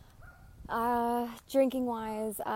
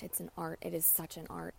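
soft reverent; 3 semitones lower, 6 dB quieter than usual. Acted. Reverent aside about the craft.

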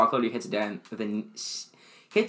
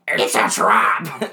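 loud, slow unison shout; lifting together; 7 dB louder, much slower than usual. Shown as a demonstration. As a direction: boom it out together, slowly. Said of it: "You wanna say it on together on three?".

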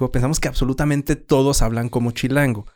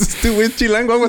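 higher, distrustful voice; suspicious local; 10 semitones higher than usual. Retold or imitated. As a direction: sound wary of a chilango. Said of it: "El acento chilango".

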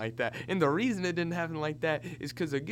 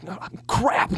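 breathless running gasp; 3 semitones higher, 6 dB louder than usual. Retold or imitated. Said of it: "I'm saying".

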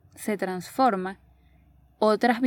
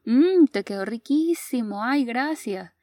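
mock-polite compliment on food; polite praise; 3 semitones higher, 5 dB louder than usual. Adult praising bad food to spare the cook, politely gushing.

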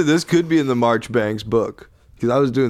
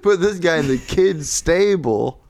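laughing retelling. Retold or imitated. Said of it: "I said".

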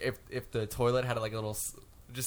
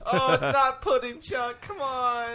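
mock disgust; 11 semitones higher, 5 dB louder, slower than usual. Acting astronauts in a mess.

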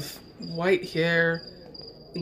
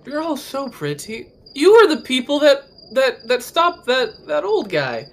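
put-on drunk party guest; 8 semitones higher, 5 dB louder than usual. Drunk NPC recognizes them.

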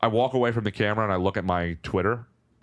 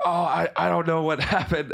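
laughing; 7 semitones higher than usual. Real, not acted. Telling mom he is confused.

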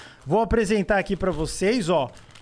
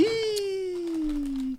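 surprised ih; 10 semitones higher, 3 dB quieter than usual. Real, not acted. Reacts to guest refusing water.

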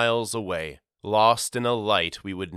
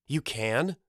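surprised mother; 4 semitones higher than usual. Acted. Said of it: "cried Mama".

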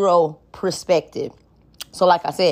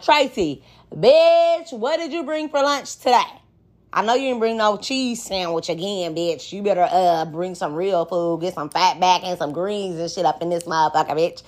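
put-on brash casual girlfriend talk. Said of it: "if I would have been like".

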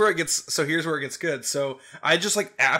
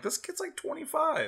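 mock parent voice; 13 semitones higher, 8 dB quieter than usual. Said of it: "go like".

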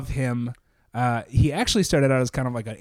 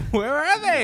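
dad voice; 11 semitones higher than usual. Retold or imitated. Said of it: "he's gonna say".

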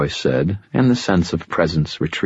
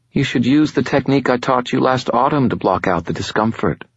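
higher, silky voice of an ancient fallen angel, calm and superior; fallen angel Lashiel; 7 semitones higher than usual. Acted. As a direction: speak as a patient otherworldly being, a little above it all.

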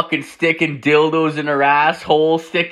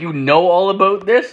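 can't believe he knows; incredulous question; 6 semitones higher than usual. Retold or imitated. To his friend about the OnlyFans, high incredulous question.

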